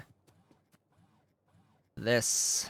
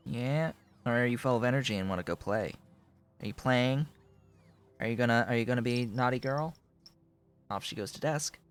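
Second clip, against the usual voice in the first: much higher, cooing pet voice; 7 semitones higher, 4 dB louder than usual. Real, not acted. Talking to his cat Dolly on his lap, high cooing baby talk.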